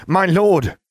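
high, loud nasal cry of a lackey; a groveling servant's high nasal cry. A narrator's reading. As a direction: call out in a whiny nasal squeal. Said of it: "a nasally voice cried".

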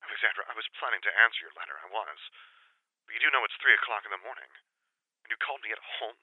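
annoyed undertone; hushed. A narrator's reading. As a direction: keep your voice down while objecting. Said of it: "in a whisper that was almost a hiss".

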